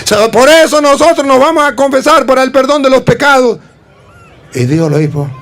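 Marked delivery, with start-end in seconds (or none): 0.0-3.6 put-on child reciting. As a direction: recite like a proud pupil.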